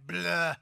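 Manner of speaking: "bleu" as a short splat, like something thrown against a wall. Shown as a demonstration. Pastor showing the last syllable like a splat. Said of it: "Sounds like you threw something against the wall".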